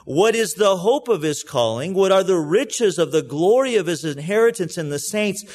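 earnest, steady Bible reading with a preacher's lift; scripture reading. Acted. Pastor reading Paul's prayer to the congregation, earnest scripture reading. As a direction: read Paul's prayer out to the church, unhurried.

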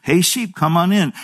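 imitating an easy, low call; understated low-toned call to the sheep; soft low tone. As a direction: call them in gently, without raising the voice. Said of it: "in a very soft, low tone".

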